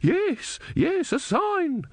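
put-on breathless young woman, high and awed. A narrator's reading. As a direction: pitch up into an excited young woman. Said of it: "said a young woman".

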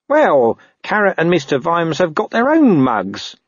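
high-pitched, reasoning underling; squeaky, defensive reply; puzzled corporal. Acted. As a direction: answer the boss cautiously. Narrator voices Nobby answering captain.

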